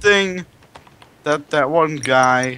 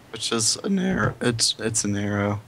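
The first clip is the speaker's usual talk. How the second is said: hoarse, cracking voice; cracked voice; 6 dB quieter than usual. Real, not acted. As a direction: voice cracking badly. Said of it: "My voice is cracked majorly".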